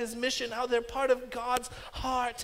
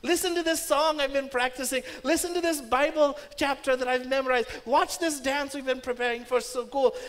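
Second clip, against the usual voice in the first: put-on bright, eager child voice, a bit higher; eager kids showing off; 4 semitones higher, 4 dB louder than usual. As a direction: show off like an excited kid. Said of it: "they would love to say".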